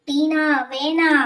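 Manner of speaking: slow, menacing spirit voice; ghostly warning. Acted. Possessed student warning the teacher, slow ghost voice. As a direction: warn her off, drawn out and eerie.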